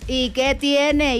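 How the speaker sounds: ordinary delivery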